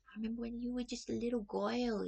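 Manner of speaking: imitated Brooklyn woman reminiscing; Brooklyn accent. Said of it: "she's got that Brooklyn accent".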